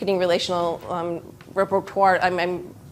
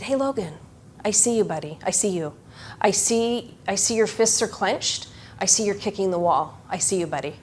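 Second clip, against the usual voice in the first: calm and reassuring; 4 dB quieter than usual. Retold or imitated. Calming an angry boy.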